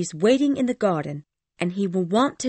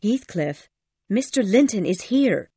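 high, louder servant's warning; urgent warning; 11 semitones higher, 6 dB louder than usual. Acted. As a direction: warn the lovers in a lifted voice. Ellen warns the lovers urgently.

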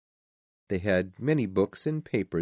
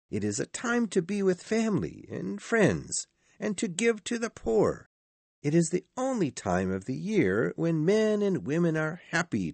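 high, heartfelt speech praising Christmas; earnest nephew; 9 semitones higher than usual. A narrator's reading. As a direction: plead the case in a much higher voice. Narrator voices the nephew's speech.

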